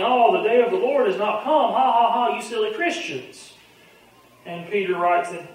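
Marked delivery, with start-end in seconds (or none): 0.0-3.5 loud, higher mocking jeer with a fake laugh; scoffing. Scoffers mocking the waiting church for its belief, scoffing. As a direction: imitate scoffers jeering, raised in pitch and volume. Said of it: "they're scoffing and saying".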